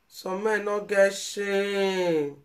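very slow, drawn-out reproach; mournful slow scolding; slow lament. Real, not acted. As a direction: stretch each word in sorrow. Lamenting, near tears.

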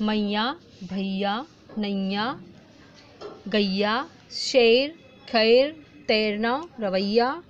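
each word drawn out, ending in a rising lilt; slow sing-song word list; slow word reading. Shown as a demonstration. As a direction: read each word slowly for children. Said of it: "हम इसको ऐसे पढ़ेंगे".

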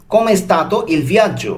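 "Come stato il viaggio?" stretched very slowly; careful slow teacher reading of "Come stato il viaggio?"; slow model phrase. Shown as a demonstration. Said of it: "এর Italian কি হবে?".

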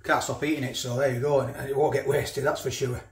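talking while chewing; mouth full. Real, not acted. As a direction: speak through a mouthful of food. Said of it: "Apologise for talking with my mouth full".

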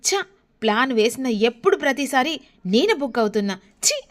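a hint of anger, spitting out ఛీ! at the end; angry. Nakshatra, fed up that her plan failed again, angrily. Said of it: "కోపంగా వస్తుంది".

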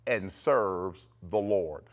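measured, slowing to a spaced-out close; declaration to repeat. Shown as a demonstration. Preacher leading listeners in repeating the decree, declaring. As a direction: lead others in saying it. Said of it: "say it with me".

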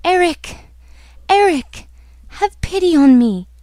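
high, pleading cries; frightened cry. Acted. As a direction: call out to him, begging for mercy. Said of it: "she cried".

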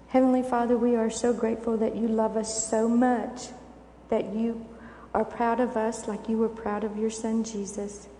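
put-on gentle prayer spoken for the children; children's prayer. Pastor praying with children before the church window, gentle prayer. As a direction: lead the little ones in a simple prayer.

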